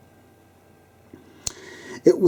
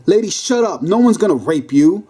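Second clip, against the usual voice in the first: raised-pitch cop's rebuke; exclaiming; 5 semitones higher than usual. Acted. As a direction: exclaim it like a fed-up cop. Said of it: "One cop exclaimed".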